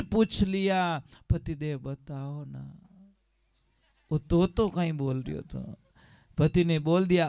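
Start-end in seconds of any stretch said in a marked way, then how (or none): 1.3-5.8 coaxing wife. Acted. Wife coaxing husband again.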